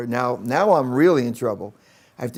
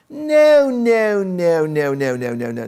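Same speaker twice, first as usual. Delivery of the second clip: starts as a much higher, louder cry and fades down to plain; scolding no's; 5 semitones higher, 5 dB louder, slower than usual. Retold or imitated. Teacher stopping the boy counting on fingers, shouting then fading. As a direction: hammer the first no hard, then let it run down. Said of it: "She goes".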